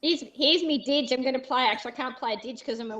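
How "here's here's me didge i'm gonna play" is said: broad Australian. Pretend. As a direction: ham up a broad Australian accent. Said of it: "talk a lot of Australian slang".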